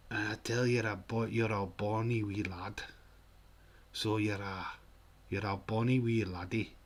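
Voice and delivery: put-on Scottish patter; Scottish accent. Shown as a demonstration. Streamer playing a Scot praising a lad, put-on Scottish accent. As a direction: play a stock Scotsman, halting. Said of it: "and I'm Scottish".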